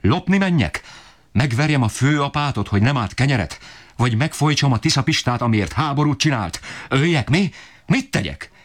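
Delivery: very high, strained, desperate tirade; father berating the family for lack of bread, shrill-high rage; raging father. Acted. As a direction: screech out the injustice of it all.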